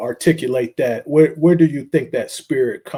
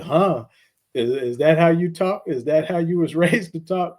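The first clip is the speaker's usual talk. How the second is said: mildly mock-stern grandmother, pitched higher; retold scolding; 5 semitones higher than usual. Grandmother straightening out grandson's friend on the spot, mild retold scolding. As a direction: lightly imitate a grandmother correcting a boy. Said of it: "she straightened me out".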